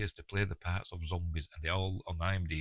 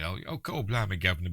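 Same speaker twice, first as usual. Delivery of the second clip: lightly put-on Cockney exclamation; mock Cockney; 3 dB louder than usual. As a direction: throw in a stock Cockney catchphrase. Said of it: "they're all Cockney".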